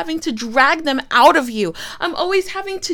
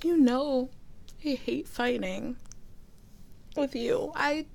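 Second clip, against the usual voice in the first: soft whisper, much quieter; whispered apology; 15 dB quieter than usual. Acted. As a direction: make peace after yelling. Apologising after the fight.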